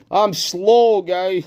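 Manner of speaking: high put-on voice; silly self-mockery. Mocking himself to viewers for being slow, silly high voice. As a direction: echo it in a comic high pitch.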